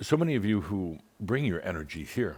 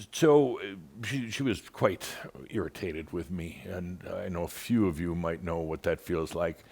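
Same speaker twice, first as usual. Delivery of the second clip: normal talking voice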